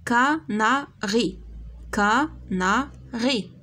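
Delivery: slow, syllables drawn out; slow modelled word. Shown as a demonstration. Teacher sounding out a word for pupils, slowly. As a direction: sound out canari for the class. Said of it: "teacher models word slowly".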